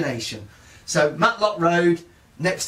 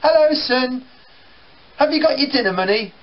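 higher, louder, brisk mum; mum's greeting; 10 semitones higher, 4 dB louder than usual. Retold or imitated. Mum greeting her son on coming in, higher. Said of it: "my mum will come in saying".

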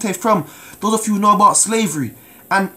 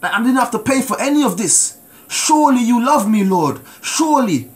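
tearful prayer; 3 semitones higher than usual. Retold or imitated. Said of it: "I just kept crying".

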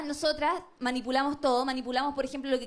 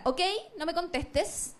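slow passive-aggressive; slower than usual. Acted. Texting her silent boyfriend.

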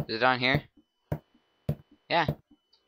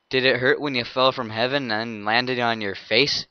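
cheesy pickup line. Acted. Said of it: "No, I did that wrong!".

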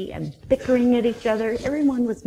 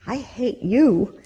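grumpy giraffe; 3 semitones lower, 4 dB louder, slower than usual. Acted. Giraffe voiced in story.

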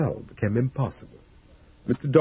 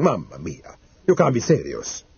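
Italian exclamation; 2 semitones lower than usual. Acted. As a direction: protest with a touch of Italian accent. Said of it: "lapsing into his native tongue".

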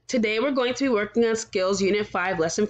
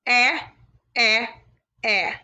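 louder, whimpering "Eh" like a pretend cry; mock crying eh; 3 dB louder, slower than usual. Teacher showing students a pretend cry, mock whimpered "eh". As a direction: fake a little boo-hoo on each "Eh". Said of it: "we can pretend not to cry".

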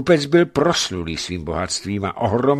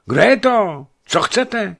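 loud, high, testy questions; irritated; 13 semitones higher, 8 dB louder than usual. A narrator's reading. Sleepy merchant roused in his bed, irritated and loud. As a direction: demand it crossly, raised voice. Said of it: "celý rozespalý usedl na posteli a zeptal se podráženě".

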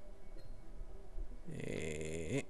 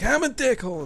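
mock remorseful confession; 11 semitones higher than usual. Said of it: "And she's like".

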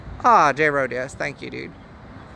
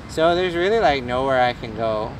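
put-on valley girl accent; 3 semitones lower than usual. Streamer teased about his accent, playing up valley-girl American. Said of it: "Sounds like a valley girl".

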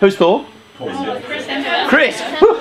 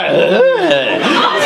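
higher wordless sound, drawn out and falling; approving vocal reaction; 7 semitones higher than usual. Shown as a demonstration. Man showing coded praise of a girl's looks, approving noise. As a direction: let an admiring noise slide downward. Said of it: "Just a slight tone change".

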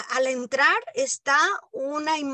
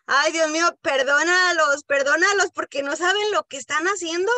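loud, high, pleading through tears; impassioned tearful plea; tearful prayer; 5 semitones higher, 6 dB louder than usual. Retold or imitated. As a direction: cry out to God as if weeping. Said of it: "yo estaba llorando".

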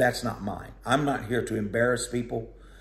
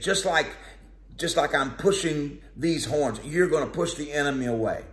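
false prophet; 4 semitones higher than usual. Acted. Preacher voicing false prophet.

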